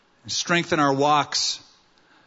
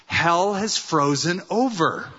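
gleeful punchline, pitched higher; hammed-up happy triumph; big-smile delight; 4 semitones higher than usual. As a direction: announce it joyfully through a big smile. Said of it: "the man said with a big smile".

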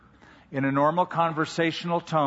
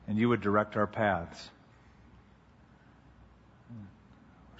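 prayer; 3 semitones lower than usual. Real, not acted. Pastor praying with the congregation before the teaching, prayerful.

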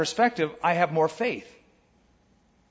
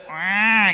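put-on baby's ah; 3 semitones higher, 4 dB louder than usual. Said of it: "It's better than just".

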